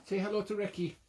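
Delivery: greeting the visiting dog in a high silly voice. Real, not acted. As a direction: coo at the little doggy in a squeaky voice. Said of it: "this silly voice".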